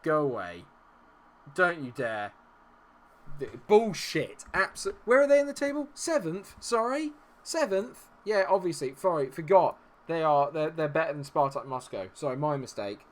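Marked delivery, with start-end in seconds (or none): 0.0-4.4 loud, furious protest at the screen; angry yelling. Real, not acted. Shouting at the game on screen. 4.5-9.8 high, loud mocking disbelief; sarcastic outrage. Real, not acted. Mocking the opponent's table position.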